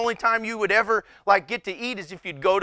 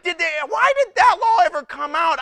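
higher, louder baffled question; 8 semitones higher, 5 dB louder than usual. Retold or imitated. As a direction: demand it in disbelief. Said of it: "I'm like".

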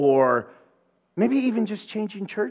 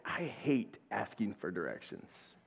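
much lower, much softer sulk; sulky grumble; 8 semitones lower, 15 dB quieter than usual. Retold or imitated. To laughing husband Mike, a low sulky grumble. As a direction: grumble it like a sore loser.

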